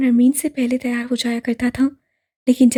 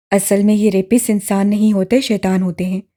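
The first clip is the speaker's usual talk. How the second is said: grim friend; 4 semitones lower, 3 dB louder than usual. Acted. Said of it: "किसी एक दोस्त ने लुकमा दिया".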